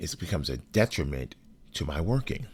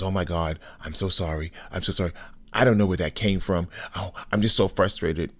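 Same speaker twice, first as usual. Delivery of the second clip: frantic apology; 3 semitones higher than usual. Retold or imitated. Partner apologizing after following him out of the conference room, flustered. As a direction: apologize in a rush of excuses.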